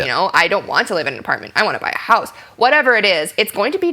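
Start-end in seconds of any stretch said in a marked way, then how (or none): 0.3-2.3 "house" emphasized against "apartment"; stress on house. Shown as a demonstration. Actor contrasting apartment with house, stress on "house". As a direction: lean on the final word "house". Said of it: "need to emphasize the word house".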